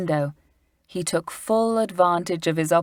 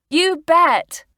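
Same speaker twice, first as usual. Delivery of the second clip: put-on much higher, louder eager girl; eager cry; 12 semitones higher, 7 dB louder than usual. A narrator's reading. Lucy answering Julian about climbing, eager. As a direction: beam as you cry it. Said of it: "cried out Lucy, smiling".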